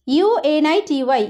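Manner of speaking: letters named one by one; slow spelling. Shown as a demonstration. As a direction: spell ইউএনআইটিওয়াই slowly, letter by letter. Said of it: "ইউনিটি".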